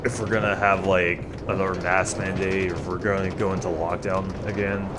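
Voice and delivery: slightly nasal, stuffy voice. Real, not acted. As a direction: talk through a blocked nose. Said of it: "I do sound, like, a little, little nasally".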